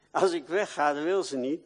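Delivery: normal talking voice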